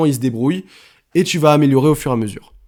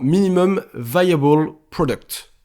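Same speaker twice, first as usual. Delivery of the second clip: slow English with a French accent; apologetic French accent on the English words; 2 semitones higher, slower than usual. Real, not acted. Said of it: "désolé pour mon accent".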